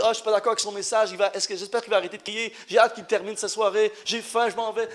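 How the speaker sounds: fast, low grumbling listener; muttering audience member. Pretend. Preacher voicing bored listeners' thoughts, fast and low. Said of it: "tout le monde peut dire".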